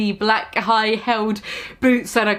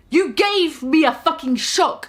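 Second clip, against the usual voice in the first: mock angry shout; 6 semitones higher than usual. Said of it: "I shouted angrily".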